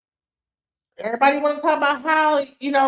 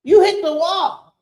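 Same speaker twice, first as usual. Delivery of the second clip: mock red pill bro; 5 semitones higher, 6 dB louder than usual. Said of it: "this whole red pill, like, rhetoric".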